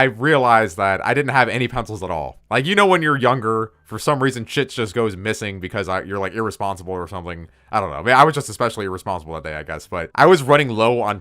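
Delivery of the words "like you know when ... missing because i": ordinary talk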